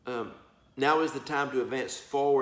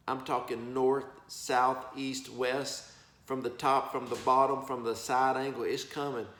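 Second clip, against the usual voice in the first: usual speaking voice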